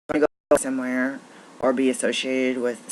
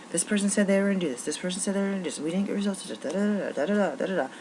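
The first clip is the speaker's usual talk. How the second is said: mocking office workers; 7 semitones higher, faster than usual.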